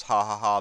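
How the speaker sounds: self-mocking ha-ha-ha; mock laugh. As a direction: toss out a fake, wordy laugh. Mocking his own funny stories.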